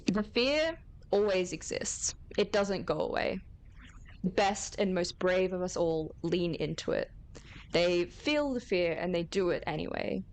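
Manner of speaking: formal commanding address to recruits; stern official. Acted. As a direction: deliver it like a commander's briefing. GM voices official's speech.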